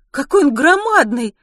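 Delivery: high, loud gasp of words; amazed exclamation. Acted. Ruth sees the huge baby, high amazed exclamation. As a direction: exclaim in wonder. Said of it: "воскликнула Рут".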